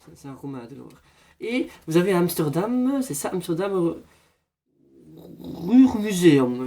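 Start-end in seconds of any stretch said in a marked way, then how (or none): 5.4-6.6 drawn-out mock Flemish accent. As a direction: stretch it slowly in a put-on Flemish accent. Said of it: "il faut le faire avec l'accent flamand".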